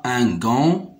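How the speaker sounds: "gant" ending on the nasal vowel, no t; silent final T. Shown as a demonstration. Teacher showing a silent letter, "gant" without its t. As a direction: leave the t of "gant" unsaid. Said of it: "ne se prononce pas".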